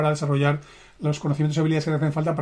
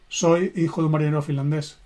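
said too fast. Retold or imitated. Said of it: "Lo dices muy deprisa".

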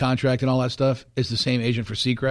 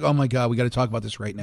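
mock urgency; 4 semitones lower, faster than usual. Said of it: "had this look in your face like".

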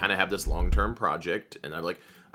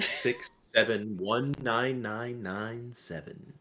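slow announcer voice reading numbers; deadpan radio reading of a phone number; phone book reading; 3 semitones higher, much slower than usual. Pretend. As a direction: read the digits like a smooth radio host. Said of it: "Just, just read the phone book at people".

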